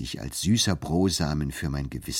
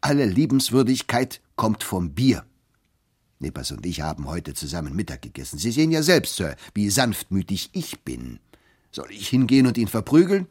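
loud interjection; 2 semitones higher, 4 dB louder than usual. Acted. Turkey butting in loudly about the beer. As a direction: bluster in loudly, beer-happy. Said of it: "mischte sich Turkey lauthals ein".

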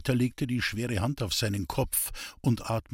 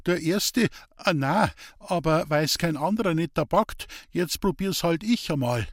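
higher, eager dialect voice, defensive; earnest simple woodcutter; 6 semitones higher than usual. Acted. Hans-Peter defending his street preaching to the priest, higher and earnest. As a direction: plead your case like a rough honest man.

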